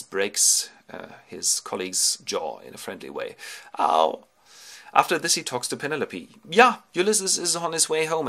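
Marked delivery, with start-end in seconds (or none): 3.8-4.2 loud, low cry of pain; mock pained ow. Beggar with broken jaw, loud mock ow. 6.5-8.3 raised, louder news-bringer voice; eager assurance. Acted. Disguised Ulysses telling Penelope, eager raised voice.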